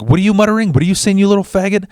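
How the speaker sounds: high, fast retold challenge; taunting bully. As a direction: imitate a bully demanding an answer. Bully voiced demanding an answer.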